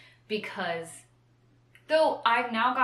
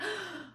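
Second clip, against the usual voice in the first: mock gasp; 14 semitones higher, 7 dB quieter than usual. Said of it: "I should be having a, like".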